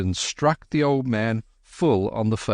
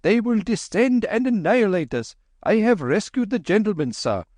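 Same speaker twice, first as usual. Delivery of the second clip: shouting Babu; 10 semitones higher than usual. Acted. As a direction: shout a warning up the hill. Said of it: "shouted Hari".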